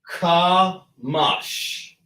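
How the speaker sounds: kamash split into ka and mash; sounded out. Shown as a demonstration. Teacher sounding out "Ka mash" for a Hebrew class. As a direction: say "Ka mash" as two clear syllables, ka then mash. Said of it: "Ka and then mash".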